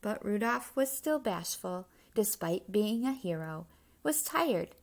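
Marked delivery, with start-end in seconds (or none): none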